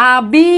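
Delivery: আ বি drawn out as two syllables; slow demonstration of আ বি; sounded-out syllables. Shown as a demonstration. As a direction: hold আ, then stretch বি. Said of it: "আমরা যদি উচ্চারণ করি".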